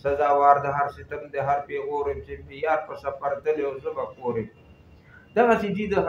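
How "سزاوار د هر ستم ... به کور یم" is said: measured, cadenced verse reading; poem recitation. Acted. Reciting Hamid Baba's verse for listeners, poem recitation. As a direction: recite the couplets with rhythmic line endings.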